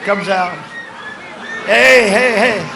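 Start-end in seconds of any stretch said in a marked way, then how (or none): 1.7-2.6 mock agitated shout, higher and louder; agitated heckling. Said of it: "No, he's very agitated".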